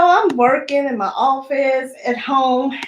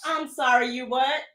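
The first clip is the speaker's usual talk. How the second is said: shocked disbelief; 6 dB quieter than usual. Retold or imitated. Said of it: "You know how that voice sounds?".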